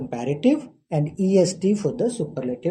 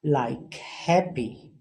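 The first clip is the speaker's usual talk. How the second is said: slow example word; 3 semitones lower, 3 dB quieter, much slower than usual. Shown as a demonstration. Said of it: "it is ending in Y".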